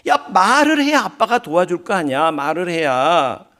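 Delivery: mildly pressing father, slowing at the end; retold pressing. Preacher voices father pressing his silent daughter, mildly insistent. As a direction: imitate a parent urging an answer. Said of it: "막 다그쳐 물었대요".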